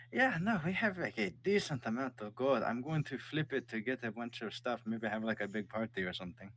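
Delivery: high, pleased king; plotting a party with the gold; king's voice. Acted. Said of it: "he goes".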